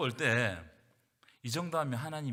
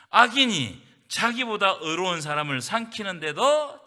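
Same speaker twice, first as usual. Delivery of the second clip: preached verse; 3 semitones higher, 11 dB louder, slower than usual. Acted. Reading the verse.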